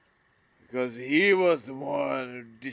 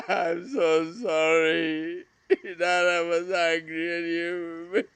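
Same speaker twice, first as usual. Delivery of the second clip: crying; 3 semitones higher than usual. Real, not acted. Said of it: "this video became so emotional".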